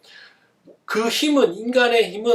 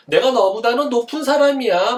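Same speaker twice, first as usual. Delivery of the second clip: mock arrogance; 3 semitones higher, 5 dB louder than usual. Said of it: "막 이렇게 하는 거를 교만이라 그래".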